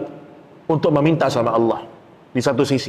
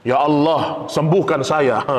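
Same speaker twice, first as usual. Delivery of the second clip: a lightly voiced demanding prayer; mighty demand; 2 semitones lower, slower than usual. Shown as a demonstration. Preacher showing the congregation a proud, demanding prayer. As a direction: demand it as if owed, a touch commanding. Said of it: "bukan penuh keperkasaan".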